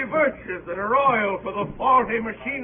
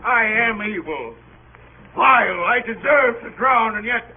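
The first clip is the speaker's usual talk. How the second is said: pleading; 3 semitones higher, 5 dB louder than usual. Acted. Begs the captain not to leave.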